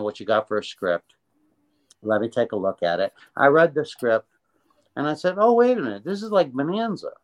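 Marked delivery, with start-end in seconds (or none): 5.4-7.1 sudden realization. Retold or imitated. Realizing the script is good.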